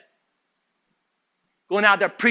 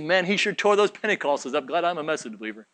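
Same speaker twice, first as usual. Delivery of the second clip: smug listener. Retold or imitated. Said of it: "He said".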